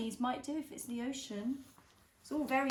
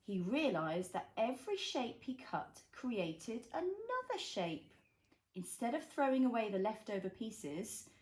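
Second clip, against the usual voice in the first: put-on reading to a toddler; 2 semitones lower than usual. A narrator's reading. Reads picture book to child.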